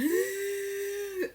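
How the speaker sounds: long high-pitched whimpering wail; high mock sob; imitated crying wail. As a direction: mimic bursting into tears, high and drawn out. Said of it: "I start crying".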